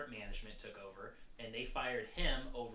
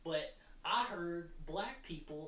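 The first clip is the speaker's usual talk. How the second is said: impersonated objector; 7 semitones higher than usual. Acted. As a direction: argue back as a mock challenger, pitched well up. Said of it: "This is my impersonation of somebody".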